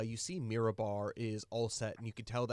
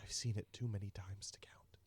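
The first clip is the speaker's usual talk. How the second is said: whisper; 5 dB quieter than usual. Acted. NPC speaks low and secret.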